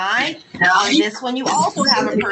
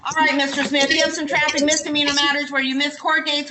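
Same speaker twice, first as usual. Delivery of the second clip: to someone hard of hearing; 5 semitones higher than usual. Real, not acted. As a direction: project for a listener who can't hear. Judge addresses defendant who can't hear.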